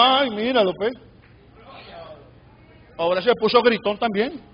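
disapprove quietly, as an onlooker; grumbling aside. Retold or imitated. Critics grumbling about a loud believer.

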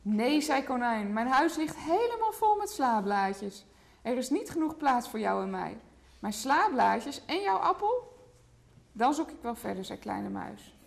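put-on lively picture-book read to a toddler; reading to children. A narrator's reading. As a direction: tell the story gently to a small child. (voorlezen aan een kleuter)

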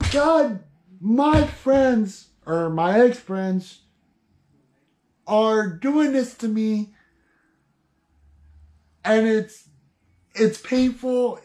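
a mild acted plea, reaching up to God; pleading Job. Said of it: "He's like".

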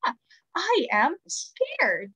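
mild mock cry of fright; lightly acted frightened "Ah"; pretend scared shout. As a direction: play at being scared, without real volume. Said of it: "and you're shouting".

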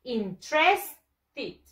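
interested very slowly as "in-TRES-tid"; slow practice model "in-TRES-tid"; correct pronunciation. Shown as a demonstration. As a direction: stretch TRES, then land "tid" in "interested". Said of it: "Again, practice".

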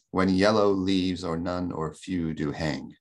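"When yellow leaves or none or few do hang" in slow, even beats; regular iambic metre. Shown as a demonstration. Lecturer showing the second line scans the same, measured iambic. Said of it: "same thing".

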